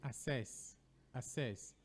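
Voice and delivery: "assess" with no K, a-SESS; common mispronunciation. Shown as a demonstration. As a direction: say access as "assess", only an S sound. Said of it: "People also pronounce this word as".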